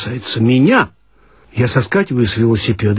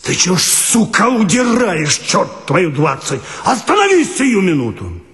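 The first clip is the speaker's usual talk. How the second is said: higher pitched mock yell of a chasing man; a hint of an angry pursuer shouting; hoarse shout; 6 semitones higher than usual. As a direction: call out after him, lightly hoarse. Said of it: "кричит осипшим голосом".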